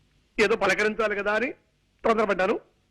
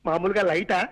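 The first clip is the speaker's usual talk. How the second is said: building volume demo. Shown as a demonstration. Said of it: "నా voice ఎలా మార్చమంటారు?".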